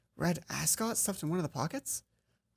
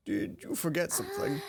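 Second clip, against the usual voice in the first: higher, a touch of a suspicious teacher; teacher's voice; 12 semitones higher than usual. Acted. Teacher questions student at locked door, high suspicious tone. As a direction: ask like a teacher catching a student.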